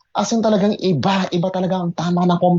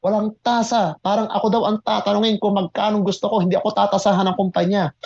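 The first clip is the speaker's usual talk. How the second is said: excited inner voice; 3 semitones higher than usual. Retold or imitated. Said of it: "Sabi ko".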